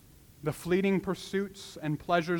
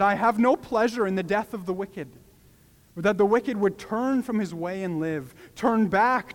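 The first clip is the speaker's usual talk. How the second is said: louder, rising appeal as God; God pleading; 3 semitones higher, 4 dB louder than usual. Acted. God calling to stubborn Israelites, pleading and louder. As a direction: plead with the stubborn people to turn. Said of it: "It carries the same tone".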